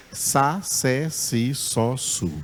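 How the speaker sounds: Sa, sé, si, só, su with a plain S sound, no P; S syllables. Shown as a demonstration. Teacher modelling Greek psi as plain S syllables. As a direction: drill the syllables with a clean S. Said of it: "o som dela é de S".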